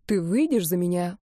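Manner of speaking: mean every word, gently; tender proposal. Acted. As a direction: boyfriend tenderly proposing to his girlfriend. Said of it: "нежно спросил Дэн".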